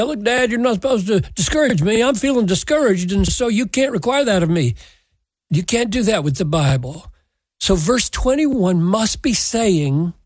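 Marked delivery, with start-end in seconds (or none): 0.0-4.7 put-on whiny child. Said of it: "because they say".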